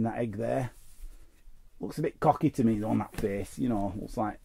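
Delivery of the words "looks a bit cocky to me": ordinary talk, nothing marked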